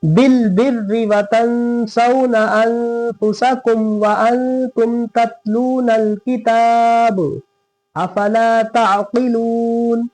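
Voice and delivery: slow, drawn-out melodic recitation; Quran recitation. Shown as a demonstration. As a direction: chant each word slowly and evenly.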